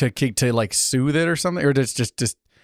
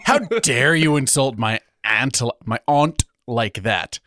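whiskey man voice; slower than usual. Acted. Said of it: "I say it like a whiskey man".

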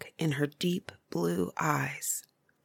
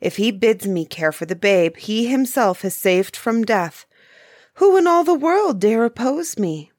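triumphant challenge; 3 semitones higher, 5 dB louder than usual. Acted. Nymph defies the woodsman.

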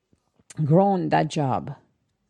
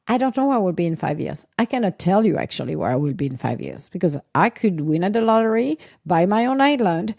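retold frank answer; 3 semitones higher than usual. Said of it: "That was always my answer".

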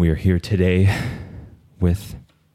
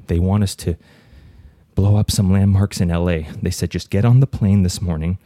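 nervous caller voice. Acted. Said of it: "I'll do both voices".

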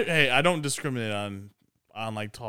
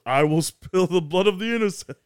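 movie villain quote; 5 semitones higher, 4 dB louder than usual. Retold or imitated. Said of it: "he goes".

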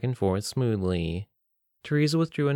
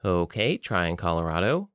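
sardonic; 2 semitones lower than usual. Acted. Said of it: "she said sardonically".

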